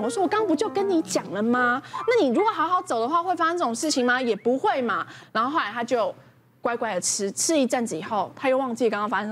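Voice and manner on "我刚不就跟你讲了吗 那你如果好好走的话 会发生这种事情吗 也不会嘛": grumbling nag. Retold or imitated. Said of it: "我就一边擦一边念".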